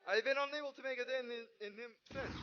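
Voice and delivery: lightly voiced game hero, a touch dramatic. Gamer reading his pilot hero's lines, a touch dramatic.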